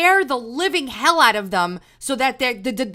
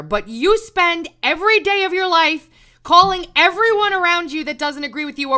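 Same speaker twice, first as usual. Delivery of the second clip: louder and higher, furious at the tweeter; angry outburst; 6 semitones higher, 5 dB louder than usual. Real, not acted. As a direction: let the anger burst out, raised and loud.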